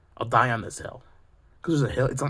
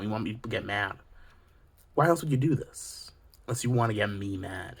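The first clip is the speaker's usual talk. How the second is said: ordinary talk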